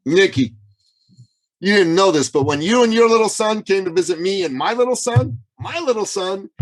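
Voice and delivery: high-pitched, mock tearful voice; imitating tearful speech. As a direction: retell it as a woman moved to tears. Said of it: "between her sobs and sniffles and tears".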